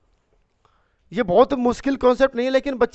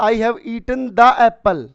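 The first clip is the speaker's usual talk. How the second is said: each word slowly spelled out; slow dictation; 4 dB louder, much slower than usual. Shown as a demonstration. Teacher dictating the example sentence slowly to students. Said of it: "तो मैं बोलूँगा".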